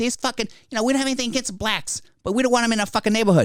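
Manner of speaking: put-on very high, 1970s Boston accent. Retelling old Southie people from documentaries, in a 1970s Boston accent. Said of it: "they've got like a seventies Boston accent".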